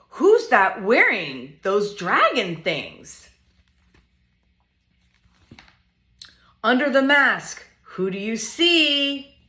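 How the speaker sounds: lively, sing-song picture book reading; reading to children. Acted. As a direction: read it playfully to little ones.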